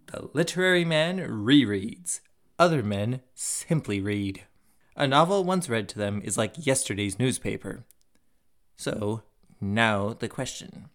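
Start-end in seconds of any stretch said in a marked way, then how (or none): 0.1-7.8 measured, emphatic quotation reading; reading aloud. Acted. Host reading a C S Lewis article aloud, emphatic reading. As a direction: read out the article with deliberate stresses.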